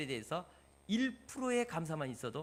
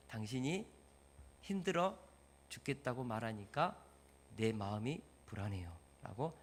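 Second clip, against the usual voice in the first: gentle I-message; 6 semitones lower, 7 dB quieter than usual. Shown as a demonstration. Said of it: "내 감정을, 내 생각을 말해주는 거예요".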